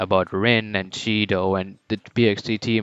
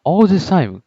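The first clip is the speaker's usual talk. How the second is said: defiant declaration. Retold or imitated. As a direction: throw the challenge at him. Isagi defies Noah, declares ambition.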